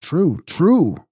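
high, eager exclamation; quick-rising cry of agreement; exclaiming. A narrator's reading. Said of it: "exclaimed Henry".

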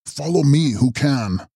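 restrained narrated call to follow; mild shout. A narrator's reading. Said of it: "and shouting".

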